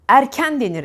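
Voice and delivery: "Erken" with both E's open, like the e in "ev". Shown as a demonstration. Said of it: "E'ler açık". ("Erken" açık E'lerle)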